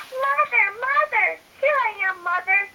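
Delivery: put-on high calling baby bird. Baby bird calling to the big thing, high eager voice. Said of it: "he said to the big thing".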